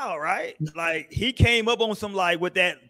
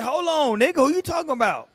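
aggressive quote; 6 semitones higher than usual. Retold or imitated. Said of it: "that nigga said".

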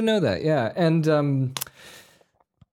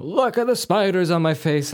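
higher mock fanatic's voice; put-on pitched-up preacher quote; hammed-up preacher; 6 semitones higher than usual. Critic mocking the film's spider-covered preacher, hammed-up.

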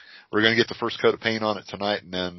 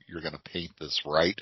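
side-eyed question; 4 semitones lower, 6 dB quieter than usual. Retold or imitated. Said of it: "he just side-eyes me and he goes".

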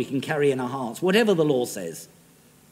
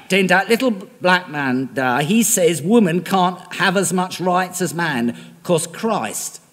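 louder, slower, mocking, in a Southern Black woman's accent; Sojourner Truth's accent; 5 dB louder than usual. Sojourner Truth answering the man, slower and louder in accent. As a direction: throw the rebuttal at the man, accent held. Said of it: "Excuse my accent".

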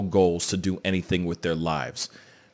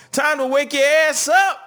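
loud wake-up call; 5 dB louder than usual. Real, not acted. Hype host wake-up call.

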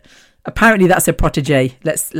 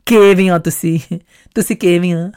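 posh Punjabi. Retold or imitated. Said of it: "quite posh when it comes to their".

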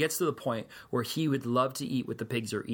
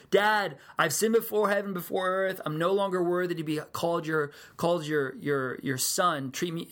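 a son blurting out his confession in a rush of feeling; pleading confession; 4 semitones higher than usual. Retold or imitated. Son pleading to his embracing father, raised and urgent. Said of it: "he starts to say".

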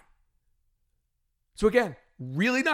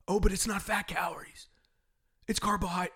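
mock objection; 2 semitones lower, 7 dB quieter than usual. Mocking an imagined objection.

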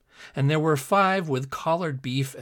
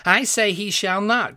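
louder, higher stubborn contradiction; crying out; 7 semitones higher, 6 dB louder than usual. A narrator's reading. Giant contradicting his friend, crying out stubbornly. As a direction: cry it out to overrule him. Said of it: "cried the other".

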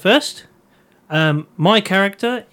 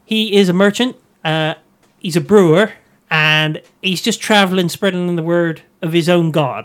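put-on West Country Bristol accent; 3 semitones higher than usual. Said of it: "You've gone to Bristol now".

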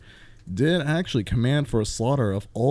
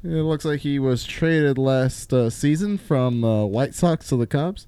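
baseball announcer; 4 semitones higher than usual. Retold or imitated. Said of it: "mostly it's like".

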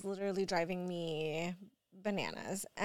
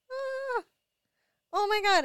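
a much higher gasp then a loud oh my God; shocked gasp; 12 semitones higher, 6 dB louder than usual. Retold or imitated. Mom reliving seeing her son with the pills, alarmed loud outburst.

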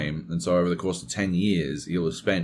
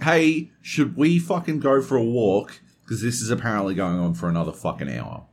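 retold yell to wife; 4 semitones higher than usual. Telling his wife over drilling, a raised yell. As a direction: call it out over the noise. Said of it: "I had to yell".

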